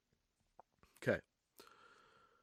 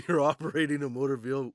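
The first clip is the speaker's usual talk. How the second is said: laughing; 3 semitones higher, 6 dB louder than usual. Retold or imitated. Retelling cop, laughing.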